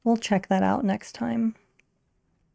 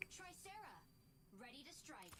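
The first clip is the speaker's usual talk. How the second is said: game announcer; 5 semitones higher, 37 dB quieter than usual. Acted. Game pilot voice line.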